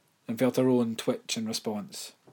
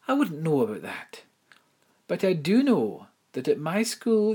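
higher, prim headmistress voice; 8 semitones higher, 5 dB louder than usual. Acted. Headmistress tells Imelda of the dead, higher prim voice. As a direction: speak as the proper headmistress, lifted high.

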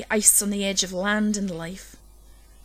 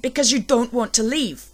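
louder accusing shout continuing; 3 semitones higher, 4 dB louder than usual. A narrator's reading. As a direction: keep pressing the accusation. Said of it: "I shouted".

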